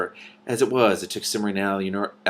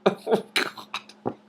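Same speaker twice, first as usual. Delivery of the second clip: breathless wheeze; much slower than usual. Real, not acted. Reader wheezing after laughing fit.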